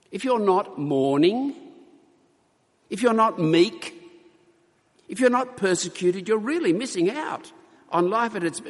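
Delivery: ironic pleading, high and emphatic; mock sympathy. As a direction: tease them as if pitying the happy. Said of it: "is Jesus saying something like".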